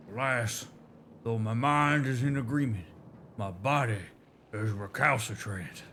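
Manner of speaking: light Southern drawl for a storytelling elder; a hint of a Southern drawl, proud and nostalgic. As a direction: read it like a Southern elder recalling old glories. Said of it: "the southern molasses coming out of their mouths".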